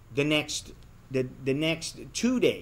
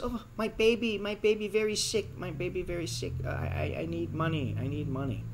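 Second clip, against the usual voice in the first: high put-on voice, begging; pleading bar girl; 4 semitones higher, 3 dB quieter than usual. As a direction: mimic her sob story, lightly. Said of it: "she says".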